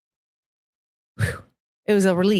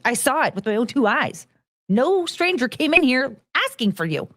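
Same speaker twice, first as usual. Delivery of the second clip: raised-pitch, emphatic retold reproach; upset, indignant scolding; 5 semitones higher than usual. Ex-employee accusing manager of not interviewing, retold upset scolding. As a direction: press each accusation home, voice lifted. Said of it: "I was very upset because I'm like".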